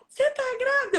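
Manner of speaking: high excited is she pregnant; excited question. Retold or imitated. Coach guessing on a video call, high excited squeal.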